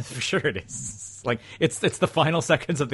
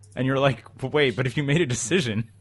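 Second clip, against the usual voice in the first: plain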